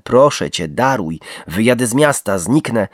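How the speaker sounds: high, loud desperate pleading; begging for life. A narrator's reading. Kneeling man begging his killers to spare him, pleading. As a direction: plead with everything left.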